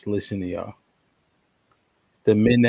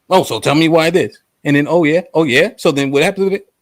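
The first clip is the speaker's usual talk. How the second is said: annoying nosy lady; 4 semitones higher, 6 dB louder than usual. Retold or imitated. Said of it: "She, she communicates annoyingly".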